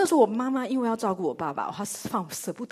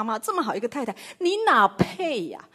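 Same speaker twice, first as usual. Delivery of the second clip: mock scorn; 3 semitones higher, 5 dB louder than usual. Scornful wife scolding family.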